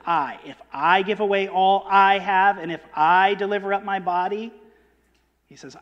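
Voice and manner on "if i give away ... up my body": I pressed in each clause; first person I stressed throughout. Shown as a demonstration. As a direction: lean on I in If I give. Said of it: "notice the emphasis on the first person".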